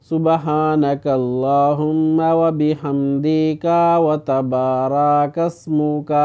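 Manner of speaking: slow chanted Arabic with the wrong short vowels; wrong recitation demo. Shown as a demonstration. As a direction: recite it slowly the way people get it wrong. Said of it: "تو یہ غلط ہے".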